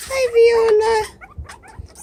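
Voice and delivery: very slow greeting with a rising end; drawn-out hi. Real, not acted. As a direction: stretch the hi out slowly for the pet. Greeting the pet.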